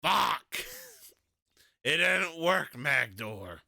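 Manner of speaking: loud, high burst of frustration; exasperated outburst. Acted. Player reporting failure to Magdor, exasperated outburst. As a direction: cry out in mock despair to a companion.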